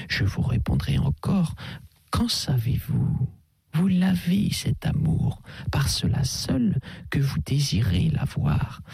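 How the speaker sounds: a hint of a soothing old priest; gentle priest. Abbé counsels Durtal.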